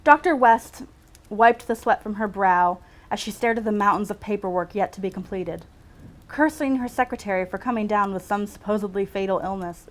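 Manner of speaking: measured read-aloud storytelling; story narration. A narrator's reading. Writer reads her own medical story aloud, measured narration. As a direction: read it out like a novel excerpt.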